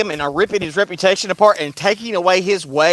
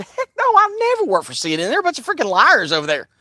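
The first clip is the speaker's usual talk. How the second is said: higher, fast huffy voice; mock indignant reporter; 4 semitones higher than usual. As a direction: play her outraged and proud. Burning in her soul said.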